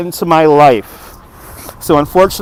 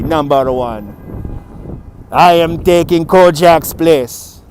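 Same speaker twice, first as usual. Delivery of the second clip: put-on accented sugar daddy swagger; Dutch Kojak. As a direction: play a self-crowned sugar daddy with a thick accent. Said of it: "Dutch Kojak does have a nice ring".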